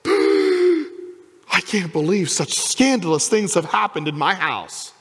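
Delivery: slow, mock-outraged muttering to himself; a lightly voiced prim, shocked host; scandalized Pharisee. Simon scandalized in his own house, slow mock outrage. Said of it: "he said to himself".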